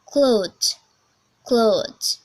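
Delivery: American "clothes", loud long "oh" glide; demonstrated American "clothes"; American accent. Shown as a demonstration. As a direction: stretch the o of "clothes" in American English. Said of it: "there is long vowel".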